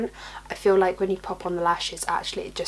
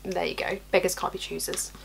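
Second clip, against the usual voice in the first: leaning in to whisper; 3 semitones lower, 5 dB quieter than usual. Real, not acted. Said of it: "trying to lower my voice".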